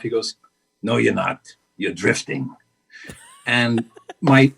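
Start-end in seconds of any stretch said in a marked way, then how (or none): 0.8-2.5 Al Pacino impression. Pacino telling her she's drifting, low blunt imitation. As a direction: drop low and let the word land hard. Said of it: "your imitation is genius".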